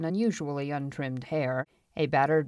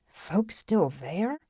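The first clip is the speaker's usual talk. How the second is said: slow, higher, rising question; eager question; 4 semitones higher, much slower than usual. A narrator's reading. Curtis asks about the lost village, eagerly. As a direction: lean in, hungry for the answer. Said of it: "Curtis asked eagerly".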